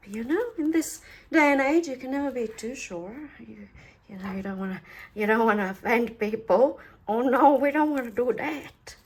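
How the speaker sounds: mock-cautious, playfully overdone concern; sarcastic. Real, not acted. Crafter teasing viewers who love double-sided tape, sarcastic. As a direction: feign great worry about offending anyone. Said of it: "I have to apologize for my sarcasm".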